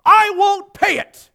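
high, full-force outraged yell. A narrator's reading. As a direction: yell it out, loud and drawn out. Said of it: "yelled the beggar".

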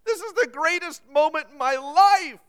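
hammed-up blubbering cry without real tears; mock sob. A narrator's reading. Man turning to the nurse, a loud mock sob. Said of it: "he sobbed".

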